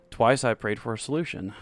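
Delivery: slight weight on solution; stress on solution. Acted. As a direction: lean on solution. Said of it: "placing stress on the word solution".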